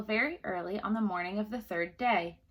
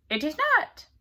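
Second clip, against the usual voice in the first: little man refusing; 6 semitones higher, 6 dB louder than usual. A narrator's reading.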